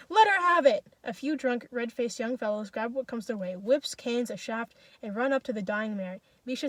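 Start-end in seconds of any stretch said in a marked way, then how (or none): 0.1-0.8 high, loud command; frenzied shouted order; wild yell. A narrator's reading. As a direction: yell it, beside yourself.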